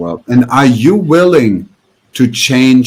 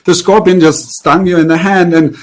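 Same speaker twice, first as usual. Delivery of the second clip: higher-pitched, frantic disciple questioning his master; alarmed student; 6 semitones higher than usual. Retold or imitated. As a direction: play the panicked student, pitched up. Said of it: "the student goes like".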